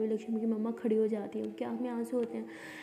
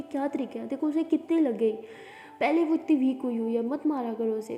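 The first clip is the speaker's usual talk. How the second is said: scolding; 5 dB louder than usual. Acted. Lily scolding classmate Diya.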